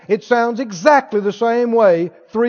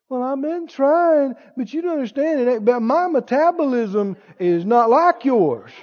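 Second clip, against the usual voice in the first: excuse-maker; 2 semitones higher, 3 dB quieter than usual. Acted. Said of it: "one of the awfulest confessions".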